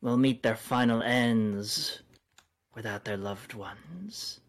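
feral snarling. Acted. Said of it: "She snarls again".

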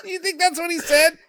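high shocked laugh. Real, not acted. Laughing at the deleted airplane line, laughing. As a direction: laugh in disbelief.

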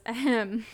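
mock pointed ahem; loud "ahem" to interrupt; throat-clearing interruption. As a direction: imitate a dad clearing his throat loudly. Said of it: "Charlie walks in and goes".

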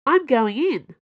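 gung-ho and upbeat; cheerful. A narrator's reading. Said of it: "she said cheerfully".

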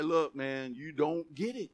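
God shrugging off the brag, man to man; lightly voiced weary God. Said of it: "And God's like".

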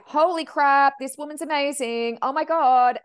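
high, loud retold amazement; amazed. Medium thrilled by a wonderful client, amazed. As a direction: gush in astonishment.

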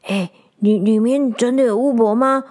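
eager animal crowd voice, stumbling; a hint of excited forest animals; curious animals. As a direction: pester the hedgehog for news.

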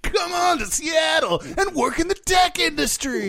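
booming high announcer hype, shouted; monster truck rally voice. Pretend. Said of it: "Why are you doing a monster truck rally voice".

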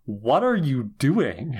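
exasperated disbelief. Acted. Mock exasperation at a character's choices.

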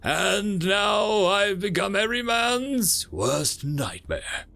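slow, booming mock-menacing voice; extra deep voice. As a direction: ham up a doom voice. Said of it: "putting an extra deep voice".

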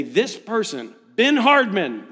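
a hint of an announcer calling a finisher's name; lightly voiced finish line announcer; race announcer. Announcer at the Ironman finish line calling a runner, lightly imitated. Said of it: "this guy announces it".

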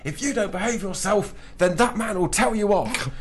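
put-on high, sing-song warning to a child; lightly voiced scolding parent; mock parent warning. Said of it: "parents tend to point at me and go".

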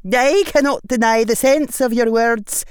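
high, loud, grudging witch voice; concede, worn down; defeated witch. A narrator's reading. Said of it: "body seemed to slump".

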